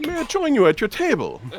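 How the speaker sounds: put-on Italian accent. Voicing a character greeting adventurers: italian accent. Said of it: "it could be an Italian accent if you like".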